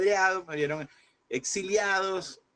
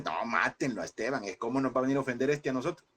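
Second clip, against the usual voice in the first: crowd's outrage; 3 semitones lower than usual. Retold or imitated. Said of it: "angry crowd against Stephen".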